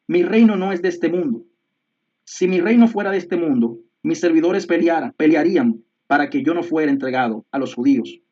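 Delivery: scripture reading. Acted. Reads John 18 aloud.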